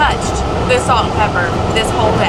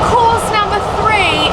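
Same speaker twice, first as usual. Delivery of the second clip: hammed-up posh British announcer; slow, drawn-out British accent; overdone British accent; 10 semitones higher, slower than usual. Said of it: "Am I overdoing the accent?".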